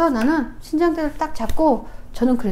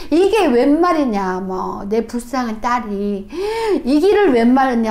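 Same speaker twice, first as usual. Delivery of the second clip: slow, drawn-out retold lament; mock tearful wailing. Father grieving over his daughter, retold tearful lament. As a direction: imitate a father lamenting, slowly. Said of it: "펑펑펑펑 울면서 저희 아버지가".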